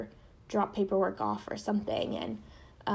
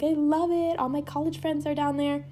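raised pitch with a forced cheerfulness; voice going high; 6 semitones higher than usual. Retold or imitated. Telling her teacher she loves San Diego, voice going high. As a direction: chirp it up higher to cover the truth. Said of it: "Sorry, my voice is going so high".

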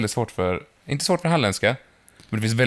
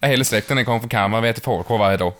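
Småland accent. Shown as a demonstration. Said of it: "då går jag direkt på Kalmar".

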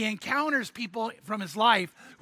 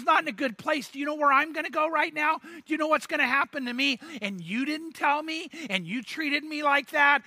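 higher-pitched, accusing outburst; indignant; 5 semitones higher than usual. Retold or imitated. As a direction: voice a hurt ex confronting him. Betrayed ex-girlfriend confronts him.

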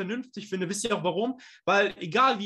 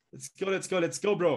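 gym bro hype; 3 semitones lower than usual. Acted. Hyping crowd before handover.

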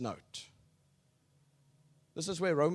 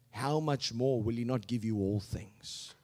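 ordinary delivery

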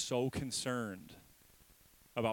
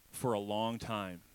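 slow emphasis; slower than usual. Shown as a demonstration. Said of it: "Everybody say".

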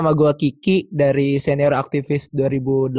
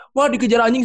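mildly imitating a crying child, pitched higher; higher-pitched, half-hearted imitation of crying; retold tearful wail; 6 semitones higher than usual. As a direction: retell it as a mock tearful complaint. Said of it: "sambil nangis-nangis gitu kan, sampai ngos-ngosan nangis".

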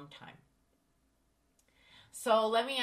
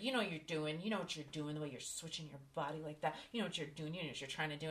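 accusing; 3 semitones lower, 8 dB quieter, much faster than usual. Retold or imitated. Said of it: "He's like".

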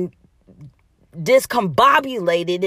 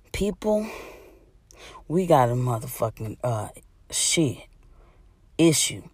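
hushed aside; 9 semitones lower, 4 dB quieter than usual. Real, not acted. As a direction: drop low and hush it. Drops to hushed confiding.

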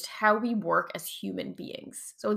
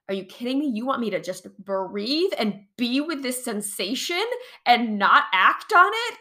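incredulous; 3 semitones higher, 5 dB louder than usual. Retold or imitated. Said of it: "I got so irrationally angry".

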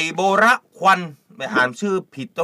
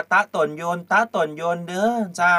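mock Chiang Mai accent. Shown as a demonstration. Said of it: "เวลาจะพูดกับคนเชียงใหม่เนี่ยเจ้า จะต้องพูดว่า".

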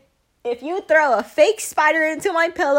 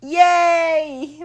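excited; 5 semitones higher, 7 dB louder than usual. Real, not acted. Cheers dad is home.

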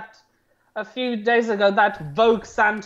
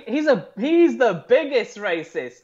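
mock-indignant sarcasm; sarcastic; 2 semitones higher than usual. Real, not acted. Co-host mocking the claim that Lincoln was racist, sarcastic. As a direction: say it with obvious irony. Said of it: "can you get the sarcasm in my voice".

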